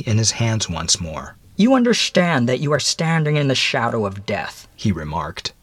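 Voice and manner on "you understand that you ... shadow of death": higher-pitched, deliberate stranger's voice; measured visitor addressing a condemned man; stern mysterious visitor. Acted. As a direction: spell out the grim facts in a higher voice.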